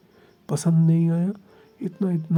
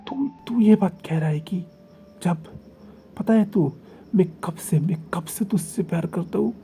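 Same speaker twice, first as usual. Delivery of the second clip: heated passionate protest. Acted. Heated lover's protest of devotion.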